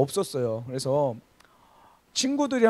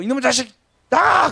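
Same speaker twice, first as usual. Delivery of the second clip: mock angry mother; 5 semitones higher than usual. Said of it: "mother quoted again".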